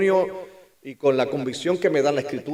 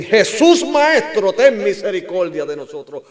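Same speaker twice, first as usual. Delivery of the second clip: crying out for mercy; 7 semitones higher, 11 dB louder than usual. Acted. People in trouble beg Jesus, crying out for mercy. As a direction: call out to Jesus, then ease slightly. Acts a desperate plea to Jesus.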